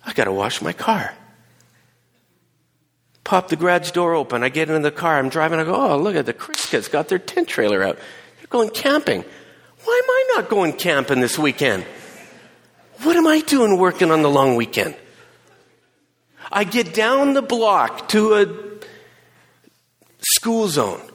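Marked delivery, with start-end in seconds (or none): 5.7-14.9 laughing self-pity. Retold or imitated. Retold envy, laughing.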